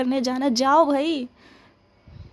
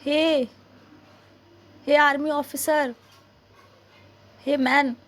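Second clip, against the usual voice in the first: calling out; 3 semitones higher, slower than usual. Acted. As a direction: shout to get his attention. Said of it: "इतना चीख रही हूँ".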